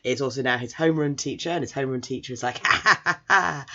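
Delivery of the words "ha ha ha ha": hammed-up "ha, ha, ha"; raised, staccato fake cackle; mock villain laugh. Villainous teacher's laugh, retold.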